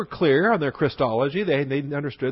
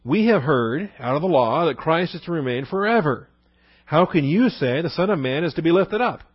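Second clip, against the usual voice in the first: mildly acted protest, pitched higher; objecting crowd; 3 semitones higher, 4 dB louder than usual. Crowd disputes that Christ can die, mild mock objection. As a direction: challenge him, as a puzzled crowd would. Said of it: "There's a crowd that says".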